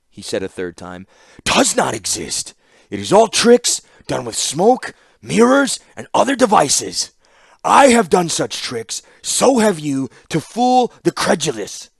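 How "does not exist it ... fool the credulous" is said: much higher and louder, slow contemptuous scorn; a ruler mocking a subordinate's belief, loud and scornful; scornful tirade. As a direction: hammer down her foolish idea with disdain. Mishra scorns magic, raised voice.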